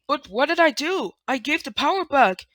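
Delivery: a character defending herself, near tears; One insists she saved Three, pleading; upset One pleading. Acted. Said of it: "Okay, then one says".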